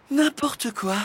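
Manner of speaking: high exasperated scoff; exasperated sigh. A narrator's reading. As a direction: dismiss it, fed up. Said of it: "soupira la maîtresse". (soupir exaspéré, voix haute)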